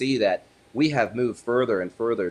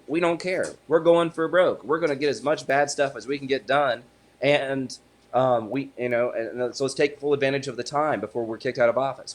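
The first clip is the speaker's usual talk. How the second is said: imitating a brazen opponent, higher pitched; mock defiant boast; 4 semitones higher than usual. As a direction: play the Democrats as gleefully reckless. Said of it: "But they said".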